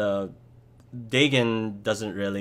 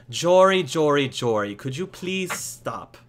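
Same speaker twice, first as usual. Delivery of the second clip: loud, raised call slowing into a plea; exasperated father; 6 semitones higher, 5 dB louder than usual. Acted. Father calling his son off the visitor, exasperated. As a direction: call out to a pestering child, then plead. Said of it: "the father, Mister Masterson".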